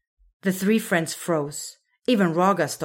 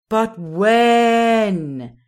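louder, higher, not a whisper at all; failed whisper; 4 semitones higher, 9 dB louder than usual. A narrator's reading. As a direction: try to whisper but say it out loud. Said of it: "Raga tried to whisper".

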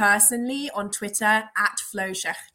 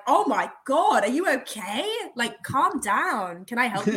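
mock alarmed Canadians; 3 semitones higher, 3 dB louder than usual. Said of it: "everyone's like".

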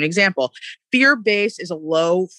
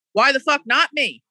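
defiant; 6 semitones higher than usual. Real, not acted. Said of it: "That's where I am".

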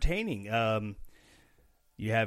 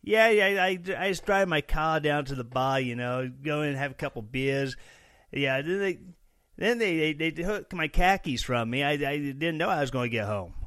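mock Boston accent; 3 semitones higher, 3 dB louder than usual. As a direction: play a Bostonian, dropping the R's. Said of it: "is he from Boston or something?".

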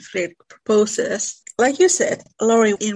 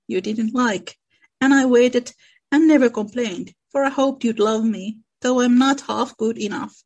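story reading. A narrator's reading. Reads Laurie's proposal scene aloud.

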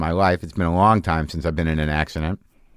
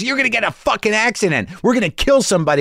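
much higher mock panicked girlfriend; retold girlfriend shouting; 13 semitones higher, faster than usual. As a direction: imitate her yelling warnings. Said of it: "And she goes".

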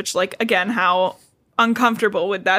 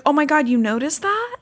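mock Edward; 6 semitones higher than usual. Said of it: "He's like".

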